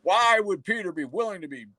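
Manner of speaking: mocking the commenter. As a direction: parody the commenter's argument as dim and whiny. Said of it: "this guy was like".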